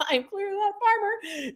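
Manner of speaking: farmer voice. Acted. Playful farmer voice.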